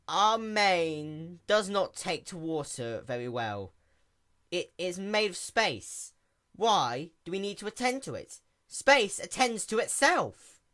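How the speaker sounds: slow, lofty, flustered defence; embarrassed excuse. A narrator's reading. Princess excuses never washing her mane, slow and flustered. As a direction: justify it with wounded pride.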